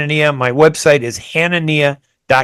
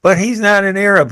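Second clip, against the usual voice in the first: higher-pitched, insistent correction; retold rebuttal; 6 semitones higher than usual. Speaker answering an audience member about Fareed, retold rebuttal. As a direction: push back firmly, quoting your own reply. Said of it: "And I said".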